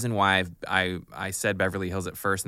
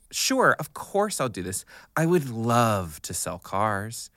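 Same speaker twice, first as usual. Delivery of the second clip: feigned enthusiasm; slower than usual. Retold or imitated. Telling agent yes despite reluctance.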